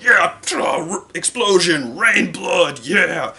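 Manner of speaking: high, loud hammed-up cheering; mock gore hype. Imitating a fan cheering anime gore, mock-wild excitement. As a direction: whoop it up like a gore fanatic.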